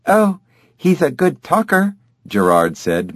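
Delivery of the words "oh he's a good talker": high mocking parrot mimicry; mimicking her voice. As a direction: parrot her words back, pitched right up. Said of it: "mimicking her voice".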